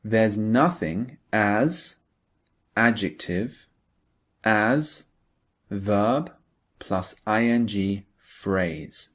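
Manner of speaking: pattern read slowly, word by word; slow dictation. Shown as a demonstration. Teacher dictating the pattern slowly to students. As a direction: spell out the structure slowly with pauses. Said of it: "we use the pattern like this".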